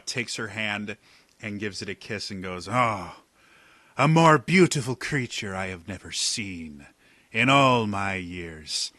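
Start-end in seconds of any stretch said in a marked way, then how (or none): 2.7-8.9 smarmy flirt. Acted. Flirting captain kisses her hand.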